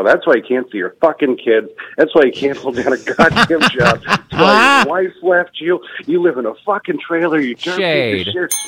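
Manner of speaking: mounting comic rant at a heckler; retold angry tirade. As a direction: retell laying into a heckler, pitch climbing. Retells blowing up at heckler.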